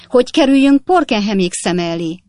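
mother crying out in social shame; anguished cry. Acted. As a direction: wail it out in despair. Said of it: "kiáltotta Napkinsné".

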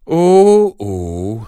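a stunned, breathless cry of shock; the old woman gasps at the shocking news; gasping in astonishment. A narrator's reading. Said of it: "hüledezék Böngér Panna".

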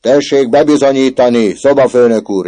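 put-on boy shrieking at the prefect. A narrator's reading. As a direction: screech the challenge. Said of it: "rikácsolt Böszörményi".

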